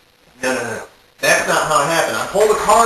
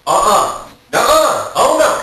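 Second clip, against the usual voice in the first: high, louder panicked no's; scared refusal; 7 semitones higher, 5 dB louder than usual. Retold or imitated. Duck coming at him, high frightened no's. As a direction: back away squealing nuh-uh.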